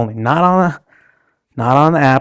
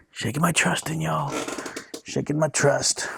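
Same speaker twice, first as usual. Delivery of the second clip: mock-sorrowful mutter; 2 semitones higher, 10 dB quieter than usual. Mock-dramatic lament over company.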